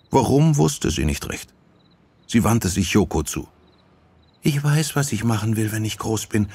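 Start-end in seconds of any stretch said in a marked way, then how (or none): 4.4-6.5 put-on young girl, dreamy. Sachiko tells Yoko her plan, girlish. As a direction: confide a childhood plan lightly.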